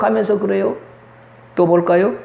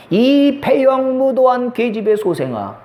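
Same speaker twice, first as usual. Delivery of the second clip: slow, higher-pitched retold curse; mock angry father; 4 semitones higher, slower than usual. Father cursing his son in anger, mock scolding. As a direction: draw the insult out in imitated anger. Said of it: "아버지가 아들한테 화가 나서 말하는".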